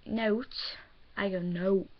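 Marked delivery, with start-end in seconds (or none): 0.1-0.5 "Note" said the schoolmates' way; others' accent. Retold or imitated. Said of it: "they say". 1.4-1.9 "No" said in the speaker's own accent; own regional accent. Shown as a demonstration. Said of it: "Like, with an accent".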